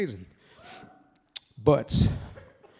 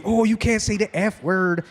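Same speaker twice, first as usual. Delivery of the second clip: slow, higher mock-prim voice; prissy scold; 5 semitones higher, 3 dB louder than usual. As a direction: mimic the fussy staff member. Quoting scolding venue staff.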